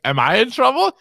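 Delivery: lightly voiced worried man; high timid voice. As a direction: ask it like a nervous kid. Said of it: "That's what you sound like. Your voice is so high".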